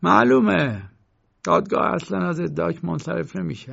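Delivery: painter rising to his feet, speaking out loud. A narrator's reading. Painter standing up, telling the accused loudly. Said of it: "با صدای بلند گفت".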